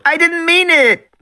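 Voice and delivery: high slow wailing plea; wailing girl. A narrator's reading. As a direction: drag it out in tearful pleading. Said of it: "Lex wailed".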